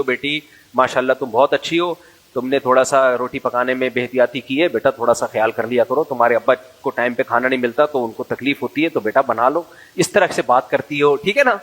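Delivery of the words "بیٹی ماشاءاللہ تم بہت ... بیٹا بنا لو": gentle mother. Retold or imitated. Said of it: "بیٹی سے ایسے بات کرتی ہو".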